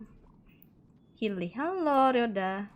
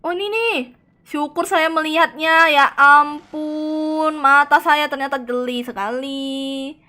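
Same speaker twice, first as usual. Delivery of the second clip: loud, high, slow hammed-up bragging; mock proud boast; 5 semitones higher, 11 dB louder, slower than usual. Streamer boasts to chat about his sharp eyes, hammed-up loud pride. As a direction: brag like a pompous hero, drawn out.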